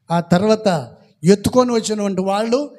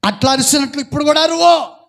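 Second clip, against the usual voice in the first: mock shout; 4 semitones higher, 4 dB louder than usual. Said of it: "ఆ రోజు ఏం గట్టి గట్టిగా అరిచావు కదా".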